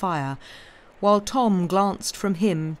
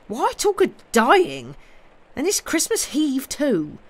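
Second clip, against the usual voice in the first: countryman scandalised by gloomy talk; rustic protest; 8 semitones higher, 5 dB louder than usual. Acted. Job objects to dying talk on Christmas Eve, rustic protest.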